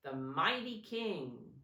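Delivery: put-on teacher leading children in a chanted line; call and response. Shown as a demonstration. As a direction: say it for the children to repeat, slow at the end. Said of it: "Say that with me".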